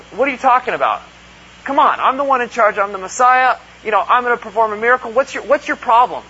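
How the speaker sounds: hammed-up defensive snap; mock snapping back. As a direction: pretend irritated retort. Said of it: "Jesus doesn't snap back at her".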